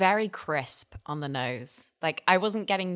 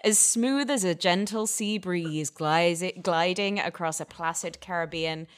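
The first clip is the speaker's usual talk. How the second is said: hammy stage actor. Pretend. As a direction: read it like a pompous stage actor. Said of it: "can I get you to read the back of this".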